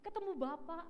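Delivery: high, eager reminding; eager young man. Retold or imitated. Young man reminding the pastor, high and eager. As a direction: push it up high like an excited youth.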